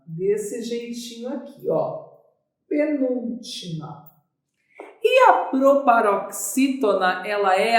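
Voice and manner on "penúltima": slow "penúltima", syllables drawn out; writing-out dictation. Shown as a demonstration. Teacher showing students how it is written, slow dictation. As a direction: say "penúltima" slowly at writing speed.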